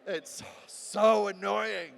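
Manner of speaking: very slow, high, drawn out; annoying siren voice. Shown as a demonstration. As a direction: whine it out annoyingly. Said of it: "the most annoying one".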